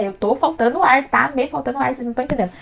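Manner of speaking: acted-out exasperated insistence; retold protest. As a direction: protest that nobody understands. Retold protest of not breathing.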